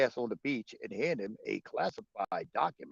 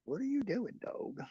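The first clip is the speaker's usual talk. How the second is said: talking to the dog; 10 semitones higher, 7 dB quieter than usual. Real, not acted.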